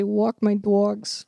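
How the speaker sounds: a quick New Jersey accent demo; light New Jersey accent, demo line. Shown as a demonstration. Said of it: "in order to do a Jersey accent, I have to say".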